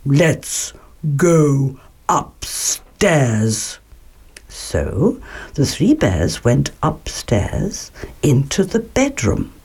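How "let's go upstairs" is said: slow, low bear growl; Father Bear tells the family, low and growly. Acted. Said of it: "in a low and growly voice".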